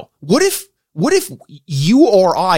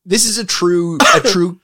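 words through giggles; laughing while talking; 5 semitones higher, 4 dB louder than usual. Real, not acted. Host fighting laughter over a family question, laughing through it. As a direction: try to stay serious but keep cracking up. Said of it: "I'm crying".

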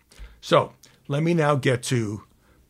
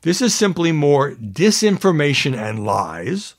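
slow and louder, as if shouting in capitals; all caps; 4 dB louder, slower than usual. Retold or imitated. Anchor reading Trump's all-caps post aloud, slow and louder. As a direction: read it like capital letters. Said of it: "all caps".

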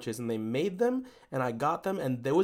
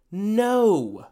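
laughing retelling; 8 semitones higher, 5 dB louder than usual. Retold or imitated. Quoting the barista's refusal.

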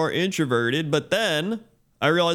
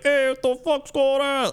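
high, slow mock yell of an East Coast local; lightly voiced rowdy local shouting at you; a hint of a rough townie hollering; mock Boston yell; 13 semitones higher than usual. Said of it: "And they're just yelling".

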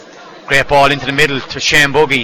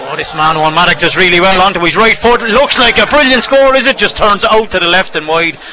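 excited; 3 semitones higher, 3 dB louder than usual. Real, not acted. Near score called live.

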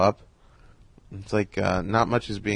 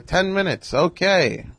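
imitating Carl Reiner; 8 semitones higher, slower than usual. Carl on the phone.

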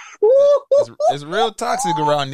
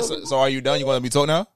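lower, dry put-down; cold comeback; 4 semitones lower, faster than usual. Retold or imitated. Imitating her comeback to a boyfriend, cold and dry. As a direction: deliver it cool and dismissive. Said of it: "you hit her with art".

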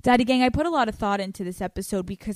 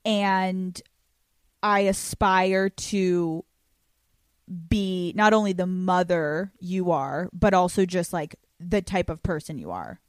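sappy; 2 semitones lower than usual. Real, not acted. Daughter telling her mom she is most influential, sappy sincerity. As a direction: say it sincerely, with long pauses. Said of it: "we can get sappy here".

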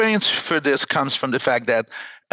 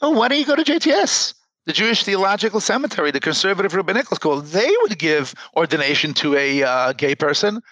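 well-meaning advisers; 3 semitones higher than usual. Retold or imitated. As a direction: breezily offer the easy way out. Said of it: "people went to him and said".

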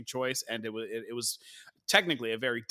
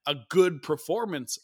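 pitched-up, louder sceptical emphasis; audible air quotes; 3 semitones higher, 4 dB louder than usual. Real, not acted. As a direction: put it in spoken air quotes. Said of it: "I'm doing air quotes".

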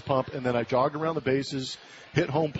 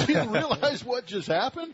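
pitched way up, pressing in disbelief; incredulous; 10 semitones higher than usual. Retold or imitated. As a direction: push her to see how big it is. Incredulous husband pressing his wife.

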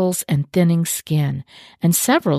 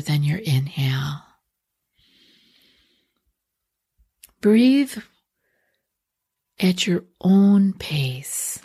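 guided meditation. Acted. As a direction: unhurriedly guide listeners into relaxation, leaving space between phrases.

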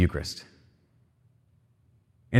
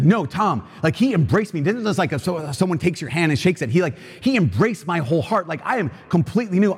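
retold excitement; 6 semitones higher than usual. Rick overjoyed after chapel.

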